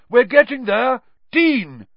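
loud, high rallying call; shout. A narrator's reading. Professor rallying class and calling next pupil, shouting. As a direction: urge them on at full voice. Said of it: "shouted Lupin".

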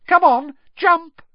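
high, loud, slow taunt; drawn-out high goading; malicious giggling. A narrator's reading. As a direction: dare them with malicious glee. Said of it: "she giggled maliciously".

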